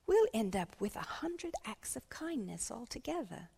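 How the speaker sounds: lilting, emphatic teacher voice; rally the pupils with a little speech; encouraging schoolteacher. Acted. Teacher rallies pupils toward community kindness, encouraging schoolteacher. Teacher character addresses class.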